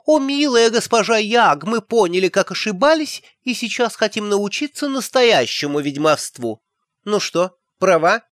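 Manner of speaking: shrill camp pantomime dame; mocking high falsetto of simpering girls. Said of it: "она заговорила фальцетом".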